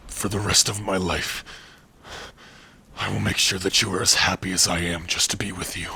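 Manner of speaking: heartfelt vow. Acted. Heartfelt vow after acceptance.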